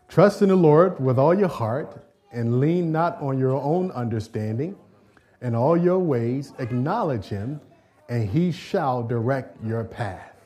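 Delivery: slow, measured reading of the verse; slow scripture reading. Shown as a demonstration. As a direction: lead the congregation through the verse slowly. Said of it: "I want everybody to read with me".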